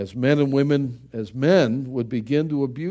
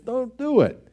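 sharp raised "Don't do it"; stern warning; 10 semitones higher than usual. Retold or imitated. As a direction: forbid it firmly. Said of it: "It's like saying".

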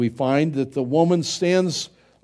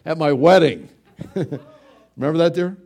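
laughing; 4 dB louder than usual. Real, not acted. Joke about his own wedding.

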